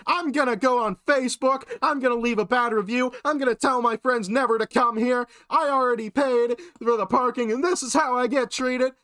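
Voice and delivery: freaking out Karen. Retold or imitated. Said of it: "she just starts to freak out on me".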